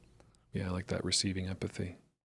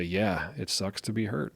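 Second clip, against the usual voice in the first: calm validation; slower than usual. Retold or imitated. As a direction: soothe a hurting child without fuss. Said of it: "calm validation".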